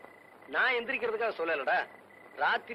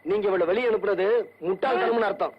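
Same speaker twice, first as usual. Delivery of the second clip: loud, rising rebuke; angry retort; 7 dB louder than usual. Acted. Son-in-law rebukes whoever sent her out, angry retort. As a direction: throw it back loudly. Quarrel over expelled girl.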